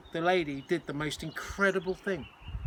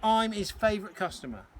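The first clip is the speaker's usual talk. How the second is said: put-on Cockney boy; 5 semitones higher than usual. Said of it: "George's Cockney accent".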